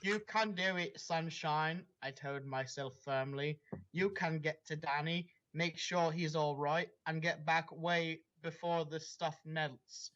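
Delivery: dramatic read-aloud of a fanfic; story reading. Acted. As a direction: narrate it like the opening of a novel. S0 reads the quoted self-pep talk.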